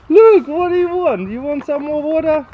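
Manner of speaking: high, loud cooing to the dog; pet talk. Real, not acted. Owner coos at playful dog.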